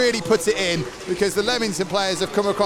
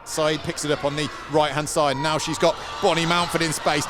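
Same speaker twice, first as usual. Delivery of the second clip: live play-by-play; 3 semitones higher than usual. Acted. Live match commentary, final whistle.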